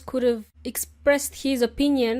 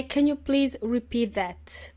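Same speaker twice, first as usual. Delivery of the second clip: polite request. Shown as a demonstration. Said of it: "simply say".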